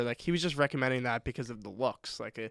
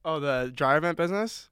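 yelling across the room; 3 semitones higher, 5 dB louder than usual. Real, not acted. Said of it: "Yell across the room".

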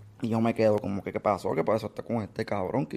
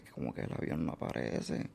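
breathless stunned whisper, much softer; 9 semitones lower, 8 dB quieter than usual. Retold or imitated. Hearing the plane vanished, repeating it in a stunned whisper. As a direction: echo it under your breath in shock. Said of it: "Y yo me quedo como que".

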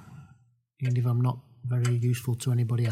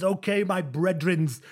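lightly voiced skateboarder, higher and slow; a hint of slangy swagger, drawn out; 5 semitones higher, slower than usual. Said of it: "It's him".

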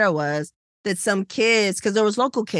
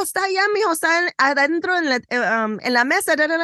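mother answering; 8 semitones higher, faster than usual. Retold or imitated. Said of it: "uh, uh, I go".

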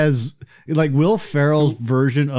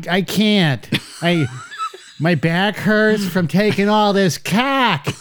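dumb customer voice; 3 semitones higher than usual. Retold or imitated. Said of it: "started harping on all the dumb customers".

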